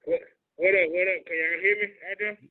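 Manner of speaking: hollow, boxy, echoing sound; talking into a trash can. Real, not acted. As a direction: voice muffled as if inside a bin. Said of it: "You sound like you're in a trash can".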